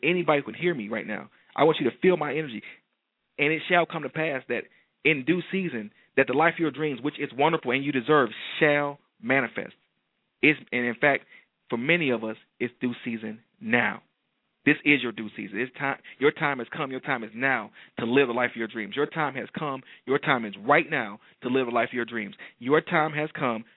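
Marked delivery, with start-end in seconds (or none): 1.6-22.4 fervent preacher's proclamation; booming motivational speech. Acted. 22.6-23.6 slow, weighty declaration; slow proclamation. Acted. Slowed proclamation.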